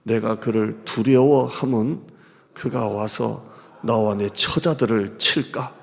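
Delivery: slow, low solemn reading; scripture reading. Acted. Pastor reading scripture aloud, slow and solemn. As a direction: read the verse slowly and gravely.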